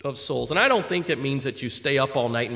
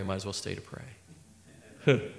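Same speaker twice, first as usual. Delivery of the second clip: devious; 7 semitones lower, 9 dB quieter, much slower than usual. Retold or imitated. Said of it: "That was my more devious side".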